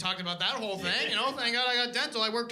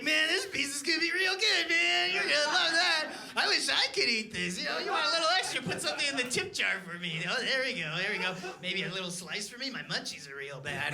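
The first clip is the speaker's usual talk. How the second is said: a lightly hammed-up stoner hyping the pizza; stoned pizza guy; 4 semitones higher than usual. Stoned pizza guy to customer, hammed-up high voice. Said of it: "I'd be like".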